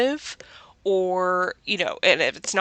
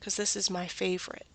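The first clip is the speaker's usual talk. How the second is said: whisper; 9 dB quieter than usual. Real, not acted. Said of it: "whispered aside".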